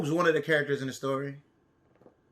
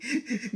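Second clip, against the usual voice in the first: breathy giggle; 5 semitones higher, 6 dB quieter than usual. Acted. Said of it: "gasped the elephant".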